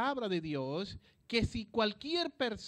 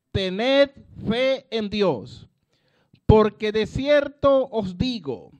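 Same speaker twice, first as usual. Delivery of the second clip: loud, slow, breathy proclamation; slow hoarse preaching hush; hoarse forceful whisper; 10 dB louder, slower than usual. Acted. Verse re-read with force.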